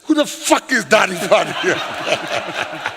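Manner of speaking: slow, exasperated retold question, laugh behind it; frustrated. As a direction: demand it in comic exasperation. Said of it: "so I was frustrated with them".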